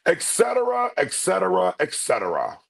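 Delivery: stepping down like a king; King of Siam impression. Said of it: "One of my favorite movies".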